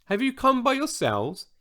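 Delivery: put-on high-pitched, very English accent; crisply English-accented question, pitched high; decidedly English accent. A narrator's reading. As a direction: ask in a pointedly English accent. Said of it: "in a decidedly English accent".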